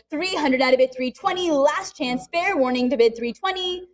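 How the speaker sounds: rapid auction chant; calling bids like an auctioneer. Real, not acted.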